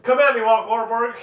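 loud, high-pitched fighting taunt; mock challenge. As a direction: call him out in a pretend brawl.

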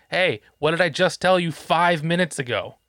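mildly aggressive retold scolding. Dad on his second warning to his kid, a little stern. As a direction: tell off a kid with a touch of sternness. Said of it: "A little more stern, like, m-, a little more aggressive".

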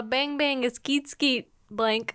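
light mock Kazakh accent; Borat. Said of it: "Borat's the one you do well".

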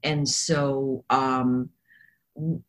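hoarse from coughing all night; raspy, coughed-out throat; froggy voice. Real, not acted. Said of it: "the reason I sound like I've been smoking a lot of cigars".

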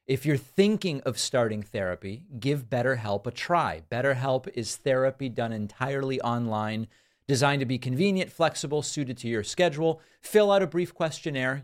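measured, smooth sponsor read; evenly paced scripted ad read. Acted. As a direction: read it like a podcast sponsor spot. Recorded sponsor read for therapy service.

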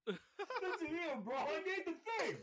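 slow tough-guy Jersey drawl; Jersey Shore accent. Pretend. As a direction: talk like a Jersey Shore bro. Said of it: "we're talking like that".

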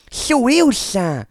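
yelled high and loud to get noticed; calling out. Retold or imitated. Narrator tries to catch his friend's attention, retold shout. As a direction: wave him down with your voice.

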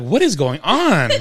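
drawn-out, playful disbelief; mock bewilderment. Host imitating confused listeners at episode's end, mock bewildered. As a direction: stretch it out like a baffled crowd. Acting out baffled listeners' reaction.

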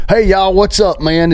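high, hammed-up Southern drawl greeting; mock Southern hillbilly accent. Trump pandering to Southern voters in a mock Southern accent. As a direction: play a pandering politician in a fake Southern accent. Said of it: "stupid hillbilly accent".

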